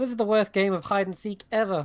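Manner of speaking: put-on high small-child voice. Recounting what one figure in a scene says, in a small child's voice. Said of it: "in like a small child's voice".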